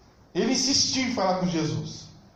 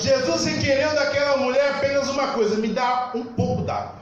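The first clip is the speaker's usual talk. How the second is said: raised, insistent preacher's delivery; preaching; 4 semitones higher than usual. Real, not acted. Preacher urging the congregation toward faith, preaching.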